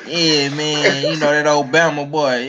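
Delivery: imitating a DC rapper's Southern twang; put-on Southern-style DC talk; Southern-sounding DC accent. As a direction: lay on a Southern-tinged DC accent. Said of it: "he sound like he from".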